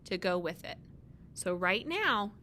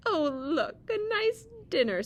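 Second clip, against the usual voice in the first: high, loud, delighted cry; 10 semitones higher, 6 dB louder than usual. Acted. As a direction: squeal with joy at the food. Pete delighted at food.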